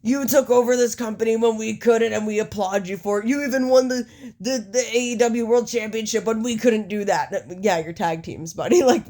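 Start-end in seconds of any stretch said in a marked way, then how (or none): 0.0-7.3 lightly raised promo speech; Matt Jackson. Acted. Wrestler applauds his rivals' takeover, terrible Matt Jackson impersonation. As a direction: declaim it like a badly imitated wrestler. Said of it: "It's a terrible fucking Matt Jackson impersonation".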